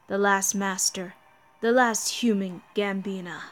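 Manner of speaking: lightly voiced villain. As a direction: gloat politely at the last master. Villain addresses last master.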